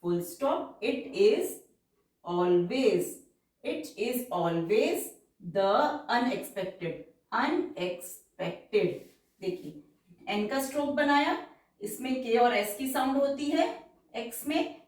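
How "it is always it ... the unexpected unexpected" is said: very slow, drawn-out dictation pace; stenography dictation, stretched syllables. Shown as a demonstration. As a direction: read it out word by word for shorthand. Dictation of passage words.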